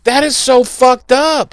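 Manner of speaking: high, slow, appalled reaction. Retold or imitated. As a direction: draw it out, aghast. Acting appalled captive seeing the wall.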